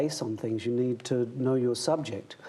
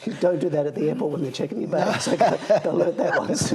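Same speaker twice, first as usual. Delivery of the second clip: laughing while talking; 5 semitones higher, 6 dB louder than usual. Real, not acted. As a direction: talk through laughter, louder. Laughing through airport story.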